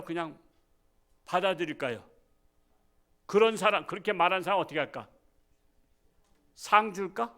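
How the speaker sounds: ordinary talk, nothing marked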